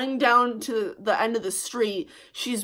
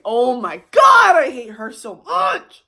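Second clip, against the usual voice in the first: loud fed-up rant; angry outburst; 6 dB louder than usual. Real, not acted. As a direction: let the anger spill out. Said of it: "Now I'm gonna get mad".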